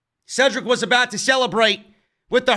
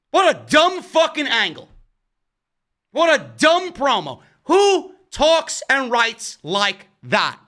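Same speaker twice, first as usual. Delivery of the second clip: exasperated disgust; 4 semitones higher, slower than usual. Real, not acted. Disgusted verdict on the wrestling promo.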